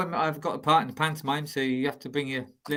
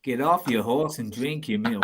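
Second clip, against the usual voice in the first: John Wayne; slower than usual. Pretend. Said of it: "you gotta go a bit John Wayne".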